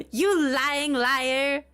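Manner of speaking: normal talking voice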